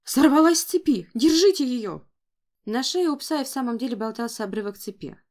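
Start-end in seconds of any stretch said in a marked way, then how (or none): 0.0-2.0 high, loud urgent yell; frantic shout. A narrator's reading. Stable worker shouts that the dog broke loose, frantic. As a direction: yell for someone to grab the dog. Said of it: "закричал выбежавший из конюшни мужчина".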